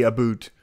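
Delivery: "a boot" with a full oo vowel; Canadian "aboot". Shown as a demonstration. Streamer giving in to chat's teasing, "a boot" with oo. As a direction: say about as "a boot". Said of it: "maybe I should just say".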